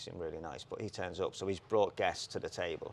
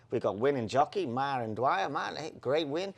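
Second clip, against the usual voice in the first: a half-hearted Welsh interviewer, higher; lightly mocking Welsh lilt, pitched up; bad Welsh accent; 6 semitones higher, 4 dB louder than usual. Retelling the Welsh pony-back interviewer, mock Welsh accent. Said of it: "I can't do the accent".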